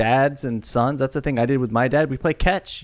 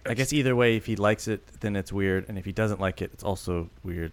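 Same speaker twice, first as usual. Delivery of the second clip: hushed aside; 3 semitones lower, 8 dB quieter than usual. Acted. Replying in the secret aside.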